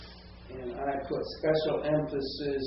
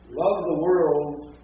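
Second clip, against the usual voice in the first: LOVED drawn out, loud and higher; slow right down and hit "loved" hard; emphasised paraphrase; 4 semitones higher, 9 dB louder, much slower than usual. Shown as a demonstration. Teacher tries a paraphrase aloud, strong slow stress on "loved". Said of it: "maybe almost paraphrase it".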